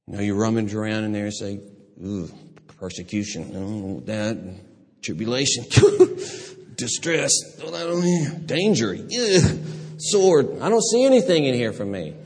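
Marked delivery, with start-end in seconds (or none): 2.0-12.1 reluctant, picky disdain. Pretend. Voicing reluctant person rummaging trunk.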